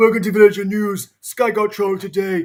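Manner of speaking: very high, loud, broadcaster-style announcer voice. The speaker recalls doing an impression of Virgin News: Virgin News impression. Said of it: "I did an impression of".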